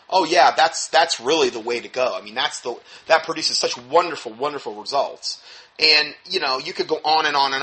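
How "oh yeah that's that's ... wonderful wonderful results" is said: sarcastic. Real, not acted. Mocks chemo as a remedy.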